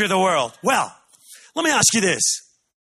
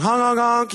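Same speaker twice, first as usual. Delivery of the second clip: goodbye honk; 5 semitones higher than usual. Shown as a demonstration. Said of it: "grandparent, goodbye honk".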